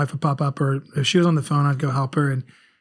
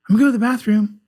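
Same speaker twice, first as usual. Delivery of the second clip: put-on higher-pitched voice of a small child; little daughter's announcement; 7 semitones higher, much faster than usual. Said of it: "Ruby would come in the room ... and say".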